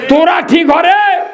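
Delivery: high laughing shout; villagers scolding. Retold or imitated. Villagers shout at father and son, laughing. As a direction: yell it half-laughing at the pair.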